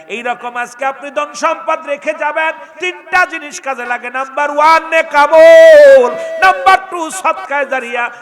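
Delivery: high, very loud sermon delivery with long-held words; full-force preaching. Acted. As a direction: call out each point, stretching it loud and high. (চড়া গলায় টেনে টেনে ওয়াজ)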